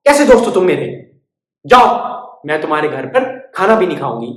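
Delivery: loud offended bird; huffy sulk. Acted. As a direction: storm off in a huff. Bird sulking at mouse.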